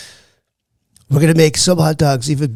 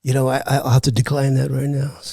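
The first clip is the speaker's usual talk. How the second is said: impersonated politician holding forth; Donald Trump; 4 dB quieter than usual. Acted. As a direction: play the president on a comedy show.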